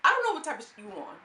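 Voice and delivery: loud, high Jocelyn voice; loud, high Jocelyn accent impression. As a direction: blast it out as Jocelyn. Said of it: "my Jocelyn accent is getting better".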